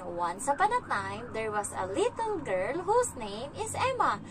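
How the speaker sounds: slow, sing-song little storyteller; stretched, swooping storybook lilt; child telling a story. Retold or imitated. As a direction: imitate a child drawing out a fairy-tale opening. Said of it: "siya nagsimula ng kwento".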